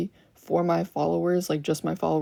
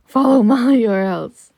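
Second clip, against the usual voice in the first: mock threat; 3 semitones higher, 11 dB louder than usual. Streamer jokingly orders viewers to follow.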